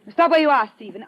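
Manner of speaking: loud, hard order at gunpoint; sharp command. Acted. Woman with a gun orders the reporter to freeze, loud command. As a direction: stop him cold with a barked command. Marta holds gun on Stephen.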